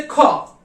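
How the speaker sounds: खा from the throat, kh and h blended; guttural kha. Shown as a demonstration. Teacher demonstrating German throat sound खा. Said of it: "का और हा की दोनों साउंड मिक्स है".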